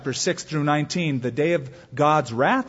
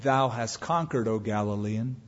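dying whisper-soft; 5 semitones lower, 7 dB quieter than usual. Acted. Dying emperor's last words.

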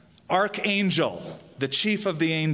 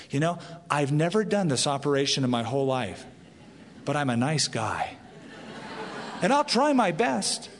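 meek nice doctor; 2 semitones lower than usual. Retold or imitated. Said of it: "very meekly, very nicely and say".

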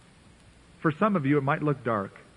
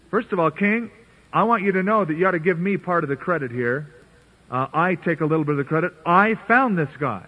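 boastful courtier; 2 semitones higher than usual. Retold or imitated. Arioch bragging to the king for credit, smug. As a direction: claim the credit, chest puffed out.

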